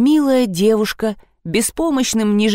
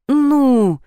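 mumbled; 7 semitones higher, 3 dB louder than usual. Acted. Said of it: "промямлил Казанова".

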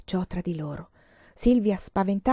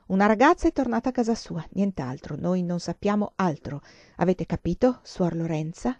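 irritated retort. Acted. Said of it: "La sua voce irritata ribatté".

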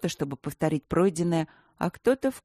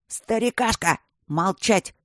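barked command; 4 semitones higher, 3 dB louder, slower than usual. Acted. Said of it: "рявкнул Аристарх".

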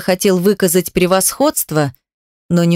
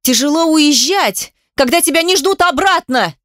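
crying out; 9 semitones higher than usual. A narrator's reading. Daughter cries out at her mother, anguished. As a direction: let it burst out of her in pain. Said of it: "вскричала я".

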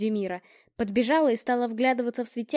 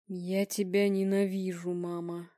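slow, low voice fading to near silence; eerie pronouncement; 4 semitones lower, 4 dB quieter, slower than usual. Acted. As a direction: intone like a possessed medium. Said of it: "изрёк он". (медленно и глухо, словно одержимый)

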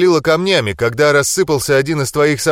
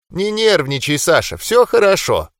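lightly voiced kind granny; sweet old lady; 3 semitones higher than usual. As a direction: soothe him like a grandma. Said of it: "голосом бабули произнесло нечто".

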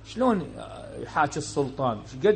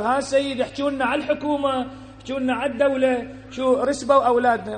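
mock complaining parent; 6 semitones higher than usual. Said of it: "شلون يجي للمنبر".

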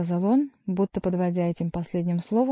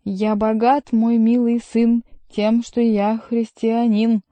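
slow, louder, higher roar; 3 semitones higher, 6 dB louder, slower than usual. A narrator's reading. Drunk monk roars his faith to Chicot. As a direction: bellow so the windows ring. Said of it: "он заорал так громко".

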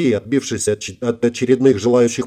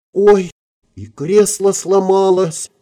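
high, drawn-out oops; acted girlish surprise; mock innocent dismay; 8 semitones higher, much slower than usual. A narrator's reading. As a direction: squeal it like a helpless klutz. Feigns helpless clumsiness after breaking seat.

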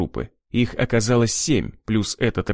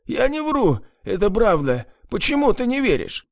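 high, frantic plea; desperate pleading; 11 semitones higher than usual. A narrator's reading. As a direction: beg to be believed. Pleading under torture. (отчаянная мольба)

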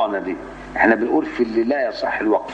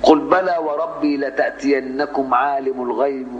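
slow measured recitation; Quran recitation; 3 semitones higher, slower than usual. Shown as a demonstration. Teacher reciting the Saba verse slowly. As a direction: draw out the verse in tajweed.

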